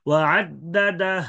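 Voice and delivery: slow ওয়া আদ্দাদাহ with lips rounded and no vowel; ishmam stop. Shown as a demonstration. Teacher showing the ishmam stop. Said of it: "ইসমাম".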